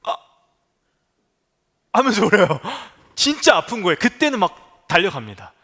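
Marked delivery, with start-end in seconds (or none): 0.0-0.2 pained gasp. Retold or imitated. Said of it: "진짜 아프면 소리가 안 나요".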